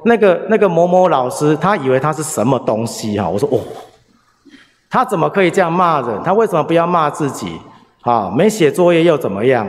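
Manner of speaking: 模仿孩子气冲冲地骂老师，音调偏高; 重演小学生的愤愤不平; mock angry rant. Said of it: "他就开始骂". (模仿儿子生气骂人，语气稍高)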